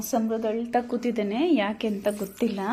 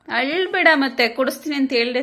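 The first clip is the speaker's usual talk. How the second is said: raised, higher-pitched plea; louder, high burst to stop the crying; insistent hushing; 4 semitones higher, 5 dB louder than usual. Real, not acted. Parent hushing the crying child.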